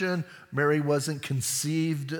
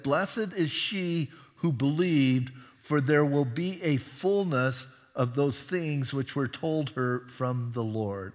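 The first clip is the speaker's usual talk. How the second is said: slow, measured Bible reading; scripture reading; slower than usual. A narrator's reading. Preacher reads Elizabeth's words to the congregation, slow scripture reading. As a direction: read the verse out slowly and deliberately.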